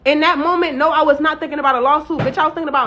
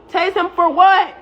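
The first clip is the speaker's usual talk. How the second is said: higher, louder and slower, in disbelief; incredulous; 5 semitones higher, 4 dB louder, slower than usual. Retold or imitated. Other officer refusing the order, higher, louder incredulous question. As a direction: ask it as if the order makes no sense.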